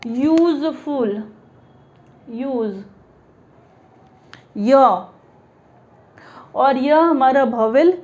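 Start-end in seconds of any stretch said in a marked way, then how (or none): 0.1-2.8 "यूजफुल" drawn out slowly, then "यूज" softer; pronunciation demo. Shown as a demonstration. Teacher showing how useful is pronounced, slowly sounding out "यूजफुल". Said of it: "तो इसका उच्चारण हम कर रहे हैं". 4.6-5.0 "य" alone as a ya sound, lower; isolated starting sound. Shown as a demonstration. Teacher isolating the first sound of useful, demonstrating a lone "य". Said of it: "इसका उच्चारण हम कर रहे हैं".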